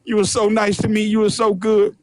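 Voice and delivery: mock gushing thanks to the master; fawning slave. Servant flattering his master, mildly hammed-up. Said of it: "this dumbass nigga".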